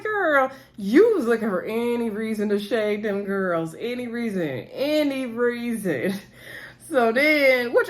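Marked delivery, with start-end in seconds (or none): 0.0-6.1 slow, drawn-out callout; sassy retort. Real, not acted. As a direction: stretch each word, calling her out. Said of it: "speaker retorts to Winter's confessional".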